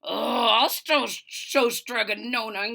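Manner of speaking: slow, aggrieved grumble; sulky muttering. Acted. Big Anthony sulking after refusal, slow grumble. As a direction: grumble under wounded pride. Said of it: "he muttered".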